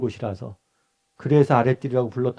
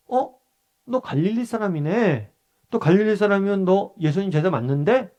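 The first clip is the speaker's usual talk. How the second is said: higher-pitched, lightly acted recognition; surprised questioning with a lifted pitch; suspicious bystander; 5 semitones higher than usual. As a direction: lightly voice someone catching a person out. Acting bystander recognising Peter's accent.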